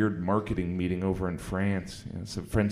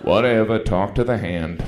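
dismissive heckler; 7 dB louder than usual. Retold or imitated. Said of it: "mean people in the audience".

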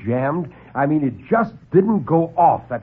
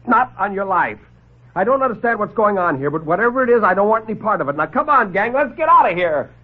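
defiant refusal; 6 semitones higher than usual. Acted. Lieutenant refuses the doctor and calls his gang to leave. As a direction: refuse flat and rouse the gang.

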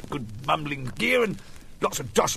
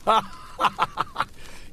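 breathy laugh; 5 semitones higher than usual. Real, not acted. Laughs at his own slip.

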